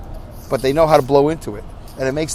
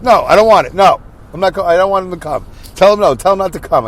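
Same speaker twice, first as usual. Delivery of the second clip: stubborn refusal; 4 dB louder than usual. Retold or imitated. Dad refusing nurse visit.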